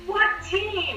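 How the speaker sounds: retold high-pitched, eager question; excited question. Parent imitating him asking who drafted him, excited. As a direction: re-enact someone desperate to know, pitch way up.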